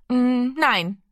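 put-on a little boy finding his courage; timid boy's refusal. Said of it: "den Mut hatte zu antworten".

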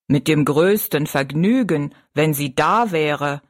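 bow with your voice, gracious giant; courteous giant. Acted. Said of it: "sagte der Riese mit einer Verbeugung". (höflicher Riese, tiefer)

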